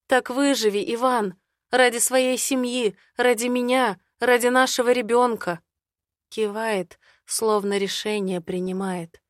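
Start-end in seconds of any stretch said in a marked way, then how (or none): 0.1-5.6 somewhat higher, urgent plea; pleading heroine. Acted. Heroine pleading with Ivan to survive, a bit higher. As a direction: urge him to live for his family.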